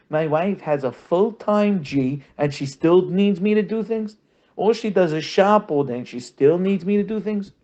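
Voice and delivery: high, put-on whining husband's voice; whiny husband. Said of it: "I hear from people".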